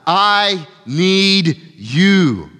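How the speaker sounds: pleading. Acted. Preacher voices a pleading prayer.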